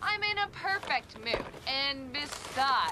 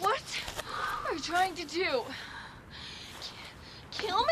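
breathless panic; slower than usual. Acted. Recovering from panic.

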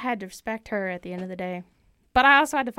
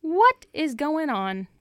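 surprised; 4 semitones higher, much slower than usual. Retold or imitated. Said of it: "And I thought".

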